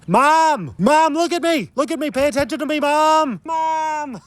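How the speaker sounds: put-on high, whiny child yelling for mom; whiny kid calling mom. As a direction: play the needy kid begging for attention. Child calling from diving board.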